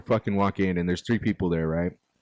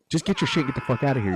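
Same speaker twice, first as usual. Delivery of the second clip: mildly irritated, raised-pitch retelling; pissed off; 3 semitones higher than usual. Retold or imitated. Retelling a fed-up guy in line, mildly pissed off. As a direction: imitate a fed-up customer, mildly annoyed. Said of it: "just pissed off".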